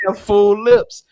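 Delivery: loud, laughing through it. Real, not acted. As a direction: laugh while making the point. Laughing mid-point.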